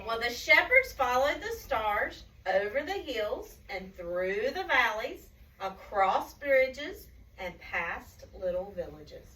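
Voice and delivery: slow, lilting journey narration; story reading to children. A narrator's reading. Telling children of the shepherds' journey, storybook lilt. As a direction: stretch each leg of the journey.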